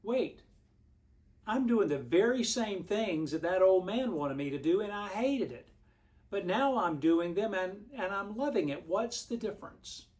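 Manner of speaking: mildly acted surprise, pitch lifting; dawning realization. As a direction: act out someone suddenly working it out. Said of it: "And then it dawned on her".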